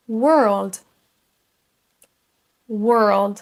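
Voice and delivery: work, word, world with a central er vowel; drawn-out er in work, word, world; repeat-after-me model. Shown as a demonstration. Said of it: "Je vous laisse répéter après moi".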